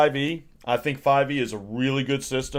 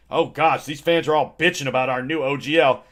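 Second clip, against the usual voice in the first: lightly voiced bossy board member; 2 semitones higher than usual. Junior board member ordering new hire George, lightly bossy. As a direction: toss the order off to the new guy.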